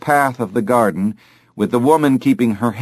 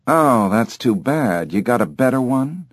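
different voice. Acted. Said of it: "and in a different voice".

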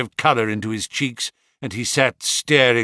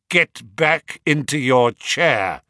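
stern; 4 dB louder, slower than usual. Acted. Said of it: "said Holmes sternly".

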